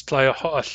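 "tlaya ho'al" ending on a clipped short vowel; final short vowel. Shown as a demonstration. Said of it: "with a final short vowel".

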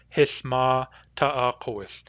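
Hith ma ta'akowith, said slowly; Nuu-chah-nulth phrase. Shown as a demonstration. Teacher voicing how Grace would say Hith ma ta'akowith. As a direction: Hith ma ta'akowith with the real-mood ma. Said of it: "she would use the real mood".

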